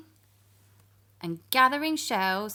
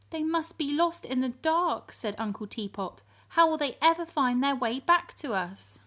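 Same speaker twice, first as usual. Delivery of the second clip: higher anxious voice; a touch of worried uncle; worried Teapot; 5 semitones higher than usual. Acted. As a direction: fret about the lost ones.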